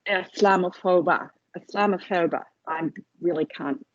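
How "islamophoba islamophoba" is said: terrible Irish accent. Shown as a demonstration. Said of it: "please excuse my terrible Irish accent".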